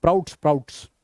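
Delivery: प्राउट्स with no S at the start; प्राउट्स repeated, starting PR, not SPR; corrected pronunciation. Shown as a demonstration. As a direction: begin प्राउट्स straight on the P. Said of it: "अबे स्प्राउट्स नहीं है".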